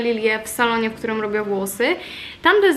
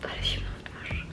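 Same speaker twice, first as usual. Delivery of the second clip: whisper; 13 dB quieter than usual. Real, not acted. Cold water on face, whispered.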